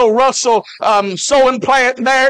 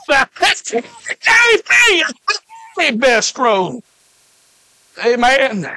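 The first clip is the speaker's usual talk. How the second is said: slow, shouted grace proclamation; preaching climax; 2 semitones higher, slower than usual. Acted. Preacher proclaiming grace to the congregation, shouted preaching. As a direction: drive the point home to the pews.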